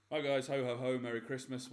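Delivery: booming jolly ho ho ho; big festive Santa-style greeting. Acted. Festive podcast intro.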